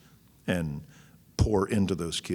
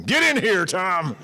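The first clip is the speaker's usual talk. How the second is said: hammed-up wife yelling, much higher and much louder; over-the-top screaming wife, far higher and louder; Teresa screaming; 7 dB louder, slower than usual. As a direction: holler it like a wife calling from the bedroom. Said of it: "Teresa has screamed at me from the bedroom".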